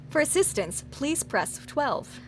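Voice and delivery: slow, drawn-out recorded menu voice; automated phone operator. Retold or imitated. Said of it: "telephone operators that is like".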